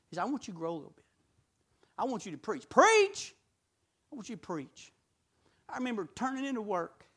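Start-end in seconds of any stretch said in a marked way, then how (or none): 0.2-2.7 quiet divine command. Retold or imitated. Voices God's calling to him. 2.7-3.3 high, loud startled echo; incredulous question. Retold or imitated. Acts out his startled reply. 4.1-4.9 soft, low voice of God; calm insistence. Retold or imitated. God calmly repeats the call.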